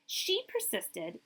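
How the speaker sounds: slow, deliberate refrain; emphatic refrain. A narrator's reading. Reading Marie's story to kids, slow emphatic refrain. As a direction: let each word of the refrain land.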